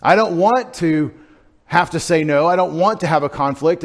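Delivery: angry, resisting. Retold or imitated. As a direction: push back as if cornered into refusing. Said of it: "you might feel angry about it".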